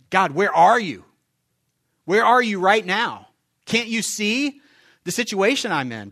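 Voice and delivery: loud, high cry to God, slow on the second line; desperate prayer. Acted. A believer crying out God, where are you, loud and pleading. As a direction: call out to God in frustration. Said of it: "Or how about this?".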